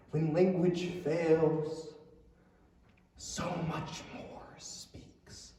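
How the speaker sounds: slow breathy whisper; dramatic whisper. Acted. Dramatic profound ending line.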